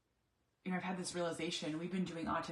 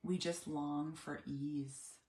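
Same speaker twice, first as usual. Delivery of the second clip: weary sigh; 3 semitones lower, much slower than usual. Retold or imitated. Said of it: "we'll both say".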